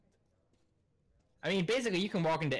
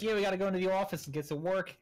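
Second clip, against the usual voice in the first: stretched Pennsylvania O's; lightly imitated Pennsylvania woman; Pennsylvania accent; 6 semitones higher, faster than usual. Coworker in line, a light Pennsylvania accent with long O's. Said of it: "all of her O's were just the longest".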